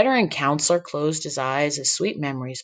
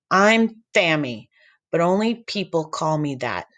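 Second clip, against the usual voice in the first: put-on lispy boy voice. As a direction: lisp the S like a goofy kid. Sammy lisps his name.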